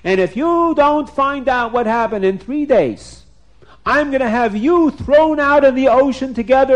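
hammed-up angry ruler; threatening king. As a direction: lay down an ultimatum to the officer.

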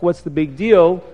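offhand dismissive question. Retold or imitated. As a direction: brush it off as nothing. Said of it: "makes everything look like".

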